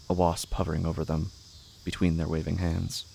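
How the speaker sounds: ordinary delivery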